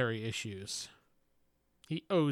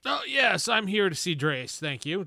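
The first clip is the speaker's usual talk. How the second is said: polite character voice; 4 semitones higher than usual. Acted. Player voices character to receptionist.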